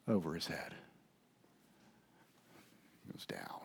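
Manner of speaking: barely voiced, drawing the room in; whispered storytelling hush; dramatic whisper. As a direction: breathe it out in a hushed whisper. Dramatic hush telling the anointing.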